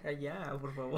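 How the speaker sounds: talking through a mouthful of croissant; mouth full. Real, not acted. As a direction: speak around a bite of food. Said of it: "estaba comiendo un croissant".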